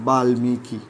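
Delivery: বাল্মীকি carefully sounded out as "bal-mi-ki"; ম pronounced. Shown as a demonstration. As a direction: spell out by ear the l and m in বাল্মীকি. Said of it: "লয়ের সাথে ম যুক্ত হলে ময়ের উচ্চারণ". (বাল্মীকি-তে ল ও ম স্পষ্ট)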